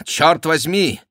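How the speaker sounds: high, loud oath; startled high curse; exclaiming. A narrator's reading. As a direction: swear out in astonishment. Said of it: "воскликнул Франсуа".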